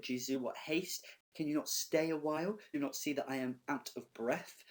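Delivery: a touch of pleading indignation; mildly exasperated Nurse. Acted. Teacher reading the Nurse's protest to Juliet, mildly exasperated.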